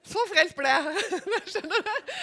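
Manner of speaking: real laugh at her own joke. Real, not acted. Preacher joking with the congregation, laughing aloud.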